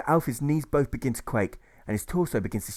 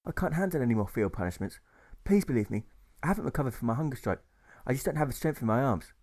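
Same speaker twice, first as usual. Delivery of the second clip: weak, tired plea; a faint, worn-out voice; poorly drawl; 2 semitones higher than usual. Acted. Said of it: "with his poorly drawl".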